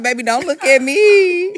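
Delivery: loud, laughing plea, half crying; laughing shout. Retold or imitated. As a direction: laugh it out as you turn away from her. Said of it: "I'm like".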